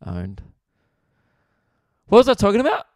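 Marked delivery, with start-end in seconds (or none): 2.1-2.9 high, loud laughing question. Real, not acted. Comic laughing at his own joke about a band, high and loud.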